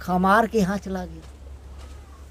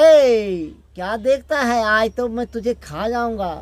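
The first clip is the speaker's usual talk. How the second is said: loud, higher menacing demon voice; demon's threat; 4 semitones higher, 3 dB louder than usual. Acted. Demon bellowing at the brothers it wants to eat.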